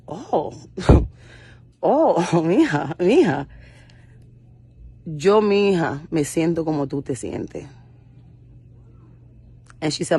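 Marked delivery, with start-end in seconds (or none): 0.1-7.7 laughing mom. Retold or imitated. Mother answering with a laugh.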